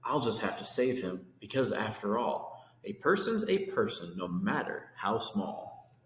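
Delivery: lively rhyming read-aloud; storybook reading. A narrator's reading. Reading Horton to kids, lively rhyming storytelling. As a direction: read the verse to children with bounce. Reads picture book aloud.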